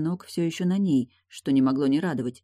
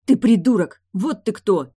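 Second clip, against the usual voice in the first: much higher, much louder insult; angry yell; 5 semitones higher, 9 dB louder than usual. A narrator's reading. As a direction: scream the insult at the door. Shouting through the door.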